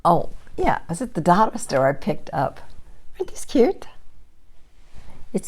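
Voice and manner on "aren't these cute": cute whisper. Real, not acted. Showing off a dollar store find.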